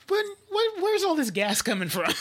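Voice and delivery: high-pitched opening, dropping into amused delivery; retold comedy bit. Retelling a comedy special about being in one's sixties, amused mock bewilderment. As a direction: quote the comedian's punchline, breaking into laughter. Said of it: "and she says".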